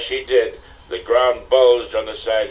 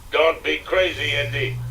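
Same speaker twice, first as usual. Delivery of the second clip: grunting; 5 semitones higher than usual. Acted. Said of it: "Sala grunted".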